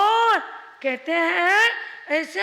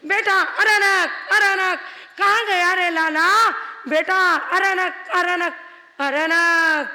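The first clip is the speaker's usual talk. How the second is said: put-on raised, searching call to a lost child; calling loudly. Mother under the tree calls loudly for her son. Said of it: "और जोर जोर से कर रही".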